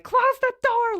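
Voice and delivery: high-pitched mock holler; urgent imitated yell; retold frantic order. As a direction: order it shut before the mouse escapes. Retold frantic order about mouse.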